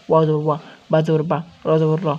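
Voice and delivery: fast spelling-out, no vowel held; quick harakat. Shown as a demonstration. Teacher demonstrating harakat to students, quick and short. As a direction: rattle off ওয়া, বা, র with short vowels. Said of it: "হরকতের উচ্চারণ তাড়াতাড়ি করতে হয়".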